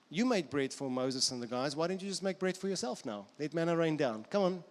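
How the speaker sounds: lightly acted goading, lively; a hint of a cajoling tempter; coaxing tempter. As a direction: egg him on persuasively. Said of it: "Jesus' temptation in the wilderness".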